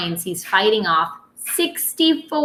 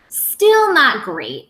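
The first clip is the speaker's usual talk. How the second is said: slow disappointment; 5 semitones higher, 4 dB louder, much slower than usual. Acted. Disappointed about height.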